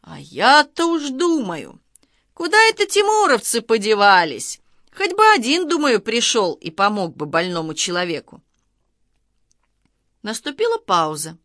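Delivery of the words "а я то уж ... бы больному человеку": loud voice. A narrator's reading. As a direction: call out loudly for them to hear. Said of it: "громкий голос дяди Жоры". (громкий, протяжный голос дяди Жоры)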